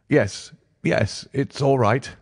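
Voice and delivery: lightly reedy character voice; nervous patient, reassured. Acted. Patient satisfied after scrutiny, a touch nervous.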